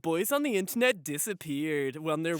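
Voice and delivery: lightly imitated countdown-video narrator; Chills. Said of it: "having a Chills video, just being like".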